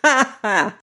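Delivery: high, gloating cackle; a short, pleased old-man cackle; old man's cackle. A narrator's reading. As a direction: cackle like a tickled old-timer. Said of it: "he cackled".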